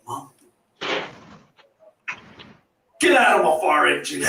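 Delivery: shouted comeback at mum; mock shout. Son shouting back at mum in the car, mock yell. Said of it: "I'll be looking at her going".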